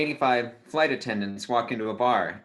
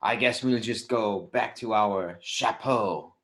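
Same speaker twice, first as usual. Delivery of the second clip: mock French accent, slowing to the punchline; slower than usual. French hat racks answering the bartender, French accent. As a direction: put on a light French accent. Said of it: "the French hat racks say".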